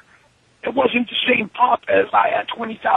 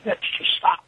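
mock grand announcement; 6 semitones higher than usual. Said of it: "I'm like".

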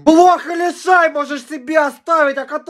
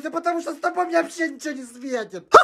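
fast mutter; 11 dB quieter, faster than usual. Acted. Muttered aside, quiet and fast.

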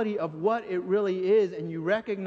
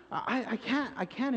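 laughing through the words; breaking into a laugh; 3 semitones higher, 3 dB quieter than usual. Real, not acted. Preacher laughing at the thought, mid-sentence.

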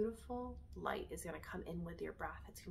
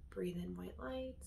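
soft, soothing meditation voice with long pauses; guided meditation; 6 dB quieter than usual. Acted. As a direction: guide them gently through each breath.

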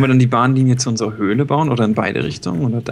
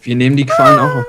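high, loud squeaky mockery; mock squeaky echo; 7 dB louder than usual. Teasing her friend in a squeaky high voice. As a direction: squeal it back in a silly high voice. Mocking friend's dramatic line.

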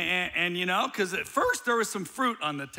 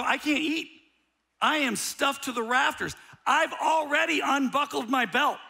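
stuffed complaint; 9 semitones higher, 5 dB louder than usual. Retold or imitated. Stuffed husband pleads to wife.

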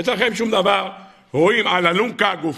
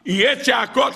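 excited warning; 9 semitones higher than usual. Acted. Preacher warns there will be screams.

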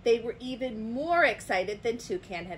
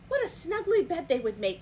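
higher, eager exclamation; delighted cry; 8 semitones higher, 4 dB louder than usual. A narrator's reading. Toucan admires ferns for the sleepover, delighted cry. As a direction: exclaim over a lovely find. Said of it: "cried Toucan".

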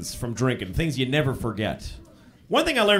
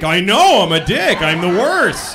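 louder hammed-up self-blame; loud mock agreement; 3 semitones higher, 8 dB louder, slower than usual. Husband agreeing with angry wife, loud mock guilt. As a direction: cheerfully shout your own guilt. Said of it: "husband agreeing loudly".

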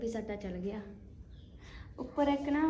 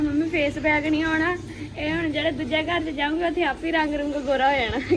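loud retold reply; 3 semitones higher, 9 dB louder than usual. Retelling what she told mom.

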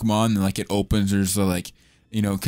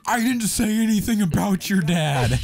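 voicing character; 10 semitones higher than usual. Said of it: "He's like".

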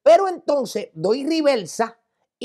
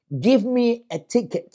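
slow, measured retold dare; deliberate challenge; 3 semitones higher, slower than usual. Telling the agitated driver to ticket him, deliberate challenge. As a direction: spell out the dare slowly, word by word.

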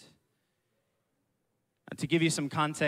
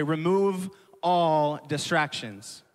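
slow, spaced, a bit louder; said to neighbor; 3 dB louder, slower than usual. Shown as a demonstration. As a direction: tell your neighbor slowly. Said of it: "look to your neighbor, say".

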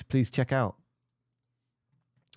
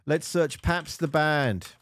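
slow, drawn-out typing voice, a little higher; slow dictation; 5 semitones higher, slower than usual. Shown as a demonstration. Typing a search for the band, slow and drawn out. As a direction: spell it out slowly while typing. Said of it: "I didn't spell that right".

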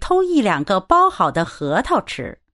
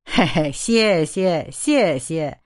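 chuckling thanks; 3 semitones lower, slower than usual. Acted. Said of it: "马老先生笑着说".

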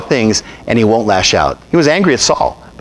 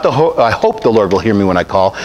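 unsure, hesitant prayer, lower and trailing; doubtful hoping; 4 semitones lower than usual. Shown as a demonstration. Preacher mocking a doubtful prayer, hesitant and unsure. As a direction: pray it as if you only half believe it. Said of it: "or not".

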